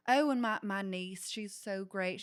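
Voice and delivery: imitating a chatty Southern woman; light Southern accent, eager to share; lightly put-on Southern lady voice. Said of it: "she had a Southern accent too".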